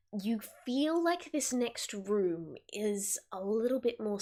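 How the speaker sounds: hushed storyteller revealing a treasure; game master scene setting. Acted. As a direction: paint the wondrous scene gently. Game master describes special room.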